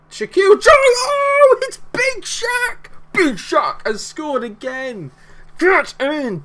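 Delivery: screaming with joy at a goal; goal celebration. Real, not acted. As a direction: roar it out, huge and high.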